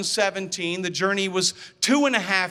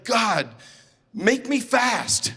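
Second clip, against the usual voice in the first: mock prayer; 4 semitones higher, 3 dB louder, much slower than usual. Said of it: "I actually prayed a prayer".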